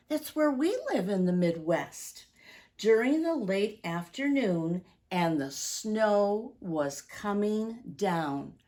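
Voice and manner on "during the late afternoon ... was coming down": storybook rhyme read with slow, lingering phrases; reading to children. Acted. Reads Santa's Prayer to the children, storybook voice. Reads picture book aloud.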